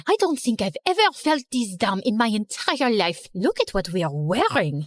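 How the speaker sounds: put-on French-accented girl, dropping low in dismay; dismayed French rival. Genevieve to Erica after the race stops, dismayed French accent.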